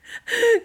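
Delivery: quick high burst of laughter; short laugh. Real, not acted. Laughing that French girls argue better, short laugh. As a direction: laugh it off lightly. Laughing at her own remark.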